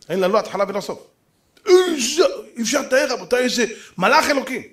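choked up in awe; tearful. Real, not acted. Preacher overcome describing the holy rabbi, tearful. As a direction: voice breaking with emotion.

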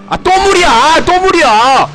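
loud exasperated yell; frustrated shout. Real, not acted. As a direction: shout in dismay. Car lands in water again.

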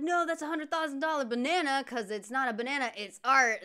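mock-outraged artist, starting high and loud; lightly acted angry outburst; retold indignation. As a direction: imitate an offended artist protesting. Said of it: "like, super pissed".

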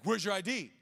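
mildly barked retold challenge; mock aggressive demand. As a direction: imitate a driver pressing for an answer. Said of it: "He's, like, really aggressive".

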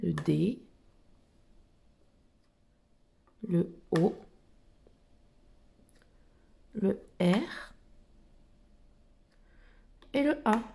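soft, low letter-by-letter spelling; name each letter gently, leaving pauses; slow soft spelling. Shown as a demonstration. Spelling the name for children, in a soft slow voice. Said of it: "Donc, Dora".

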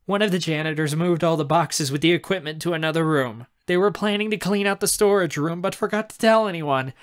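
relieved aunt. Acted. Aunt shares that charges vanish, relieved and excited. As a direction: gush the good news.

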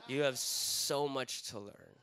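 slow, drawn-out condescension; mock-wise pastor, stretching the words out; patronizing. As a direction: imitate a pastor slowly talking down to someone. Pastor patronizes him instead of answering.

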